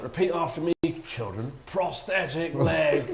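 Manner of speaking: a lightly hammed-up textbook teacher drawing it out; mock teacher drill. Teacher reading the drill to bored kids, hammed-up and slow. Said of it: "it was like".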